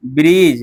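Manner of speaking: "ब्रिज" drawn low as breej, no D; "ब्रिज" with a long vowel straight into j; silent D. Shown as a demonstration. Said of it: "यहाँ पर ड कहाँ लिखा है".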